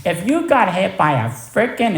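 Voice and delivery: a mentor laying down the law; stern scolding. Retold or imitated. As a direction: scold him like a tough sponsor. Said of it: "I needed to be talked to like that".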